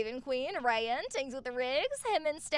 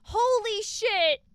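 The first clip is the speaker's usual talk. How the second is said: awed; 7 semitones higher, 6 dB louder, slower than usual. Real, not acted. Reacting to gifts.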